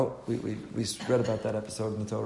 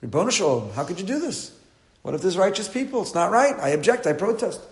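protesting God; 6 semitones higher than usual. Retold or imitated. Avraham arguing with God for the righteous, indignant protest. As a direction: object to God's judgment, voice climbing. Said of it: "but he protested".

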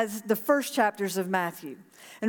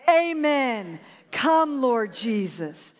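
with conviction; much slower than usual. Shown as a demonstration. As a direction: put real conviction into "Come, Lord Jesus". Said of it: "Now say it like you mean it".

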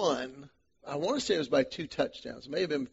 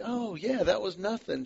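casual shrug; 5 semitones higher than usual. Retold or imitated. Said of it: "because he's like".

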